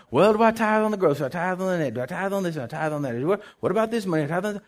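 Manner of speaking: quick, lightly mocking run of questions; imitated nitpicking questioners. Preacher imitating people who quiz him on tithing, mock pestering. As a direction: rattle off the petty queries, mildly mimicking. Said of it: "I have people all the time talking to me".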